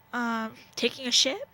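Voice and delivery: cheeky answer then laugh. Pretend. Joking answer to wyd.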